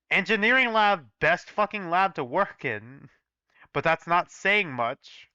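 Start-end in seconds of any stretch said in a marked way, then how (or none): 0.1-3.1 mock cheer. Real, not acted. Ironic cheer for the lab.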